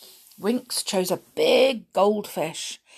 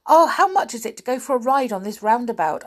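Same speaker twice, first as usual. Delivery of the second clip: eager question; 4 semitones higher, 5 dB louder, faster than usual. Acted. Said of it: "asked Binky".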